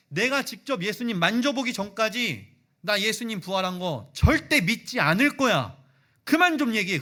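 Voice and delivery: doubtful questioning building to a loud, angry refusal; stubborn Thomas. Retold or imitated. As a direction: start skeptical, end shouting him down. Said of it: "그렇게 도마가 선을 딱 긋습니다". (의심하다가 점점 크게 화내며 거부하는 도마)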